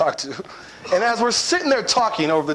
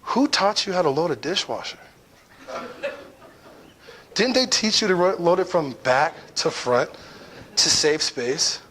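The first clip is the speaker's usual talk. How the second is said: calmest voice. Retold or imitated. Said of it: "in the calmest voice".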